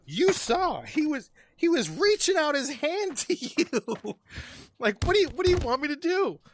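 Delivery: high-pitched, incredulous self-defense; exasperated pleading. Retold or imitated. Arguing back at his ex-wife, exasperated pleading. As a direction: plead your case, voice jumping way up.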